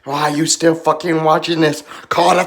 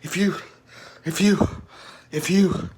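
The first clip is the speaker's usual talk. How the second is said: struggling to talk; 6 semitones lower, 9 dB quieter than usual. Real, not acted. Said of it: "I can't even talk".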